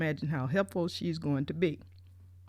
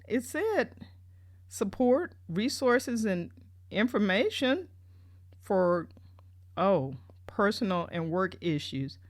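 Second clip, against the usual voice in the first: indignant quoting. Retold or imitated. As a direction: throw the brochure's words back, incredulous. Indignantly quoting the brochure back.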